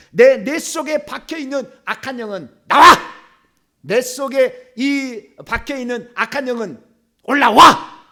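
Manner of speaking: firm exorcism order with punched endings; commanding. Shown as a demonstration. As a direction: address it slowly, then burst on the command. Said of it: "이렇게 얘기하는 거죠".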